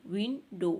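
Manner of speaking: विंडो in two separate beats, विन, डो; split into syllables. Shown as a demonstration. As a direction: break "विंडो" after the first syllable. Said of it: "two syllable word है".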